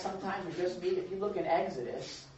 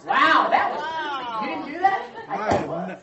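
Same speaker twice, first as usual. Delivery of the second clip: real surprise, higher; shaken surprise; 11 semitones higher, 7 dB louder than usual. Real, not acted. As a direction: still rattled by the noise. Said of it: "That scared me a little".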